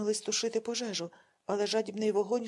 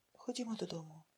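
soft, careful asking; gentle plea; 2 semitones lower, 10 dB quieter than usual. A narrator's reading. Daughter softly asking her father to come home. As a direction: coax him home gently. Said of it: "попросила вона обережно".

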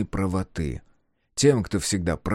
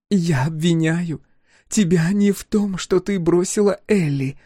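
incredulous scoff; 10 semitones higher, 5 dB louder than usual. A narrator's reading. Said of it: "недоверчиво усмехается Тея".

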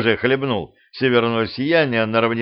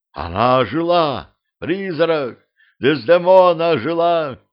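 crowd panic shout; 5 semitones higher than usual. Acted.

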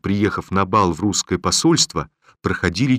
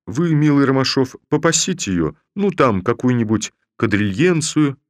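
higher, raspy coaxing tone; hoarse voice; 6 semitones higher, 3 dB louder than usual. A narrator's reading. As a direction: wheeze out a sly request. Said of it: "хриплым голосом". (хриплый голос, заискивающе)

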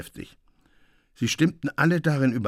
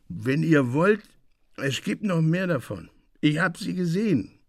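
put-on dreamy drunk; 5 semitones higher than usual. Drunk Delphin boasts.

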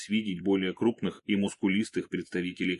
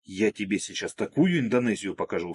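flaring up; 3 dB louder than usual. Acted. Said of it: "вспылил я".

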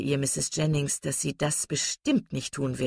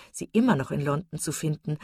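usual speaking voice

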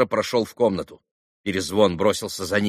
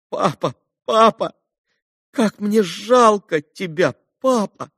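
bitter moaning; 10 semitones higher, 5 dB louder, slower than usual. A narrator's reading. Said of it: "горько простонал Илюша".

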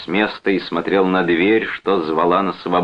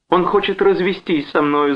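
high, whiny woman's voice; whimpering; 13 semitones higher than usual. A narrator's reading. Wife complains to her brother, whimpering. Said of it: "захныкала Джоан".

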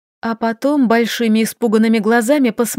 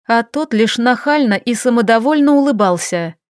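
ordinary delivery, nothing marked

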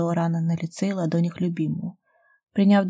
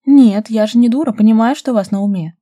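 loud, higher indignant protest; 4 semitones higher, 10 dB louder than usual. A narrator's reading. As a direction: push back hard, offended. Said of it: "возмущалась Дарья". (возмущённо, громко)

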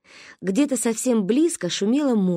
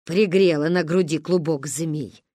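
grumbling; 3 semitones lower than usual. Acted. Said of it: "сердито пробубнила Ба".

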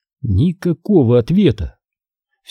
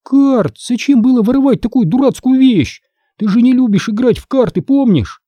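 put-on high, incredulous girl; girl mocking a stolen deck of cards; scornful girl; 11 semitones higher than usual. A narrator's reading. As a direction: scoff at a pointless theft. Emily scornful.

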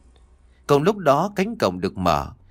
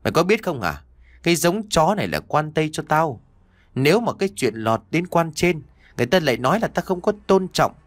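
a stern lord threatening his servant, a touch higher; angry master; 5 semitones higher than usual. Acted. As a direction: scold him like a cruel master. Master scolds servant over dog.

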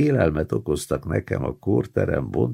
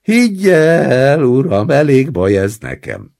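crying; 6 semitones higher, 7 dB louder than usual. Acted. Old man sobs to the roommate so the grandson feels ashamed, loud. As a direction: sob it out to shame the grandson. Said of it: "sírtam".

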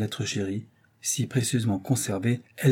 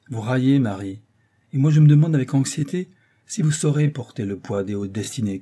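pompous father; 3 semitones higher, 5 dB louder than usual. Acted. Father lectures his daughter.

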